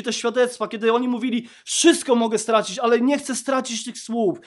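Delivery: loud, fervent sermon delivery; preaching. Acted. Pastor preaching loudly to the congregation.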